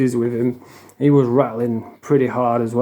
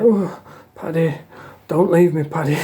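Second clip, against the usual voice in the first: imitating crying; 3 semitones higher than usual. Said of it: "he was on the top bunk crying".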